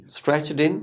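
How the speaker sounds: Stretched in as "stretch-din"; linked "din". Shown as a demonstration. Teacher repeating the linked phrase, "din". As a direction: link Stretched in, D starting the second syllable. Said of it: "डिन की sound आएगी".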